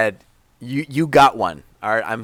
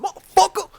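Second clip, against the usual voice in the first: high yelled catchphrase; Samuel Jackson shout; 4 dB louder than usual. Retold or imitated.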